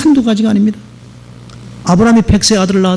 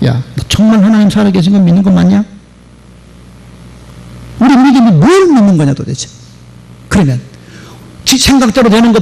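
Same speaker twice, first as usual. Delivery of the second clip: put-on a pastor telling off a young believer, lightly raised; scolding. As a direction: rebuke the doubting doctor, half-hearted. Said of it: "야단을 쳤대".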